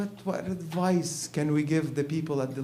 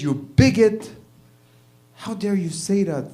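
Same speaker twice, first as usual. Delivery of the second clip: a mock-outraged wife, louder and higher; mock outrage; 7 semitones higher, 6 dB louder than usual. Wife snaps at her husband, mock outraged. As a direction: play the wife, huffy and indignant.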